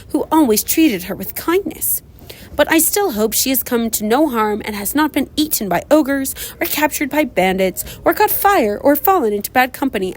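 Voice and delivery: a lightly voiced vain sister writing home; vain Hattie. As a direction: read as a vain girl fishing for praise. Hattie's letter read in character.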